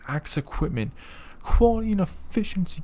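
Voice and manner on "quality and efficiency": mock slogan. Reads company slogan mockingly.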